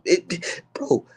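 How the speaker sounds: hushed, breathy confiding; whispered aside. Real, not acted. Streamer confiding to chat in a whisper. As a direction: lean in and say it under your breath.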